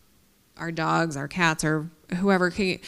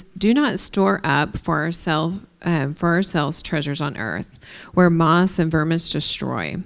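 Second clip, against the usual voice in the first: scripture reading; 4 dB louder than usual. Acted. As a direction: read the verse out with weight. Reads scripture aloud.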